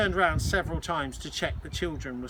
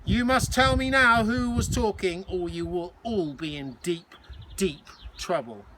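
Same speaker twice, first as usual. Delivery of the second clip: high, loud, commanding matron voice; a fierce hospital matron demanding an answer; stern Matron; 3 semitones higher, 5 dB louder than usual. Acted. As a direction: bark the threat at the silent ward. Stern Matron interrogating the ward.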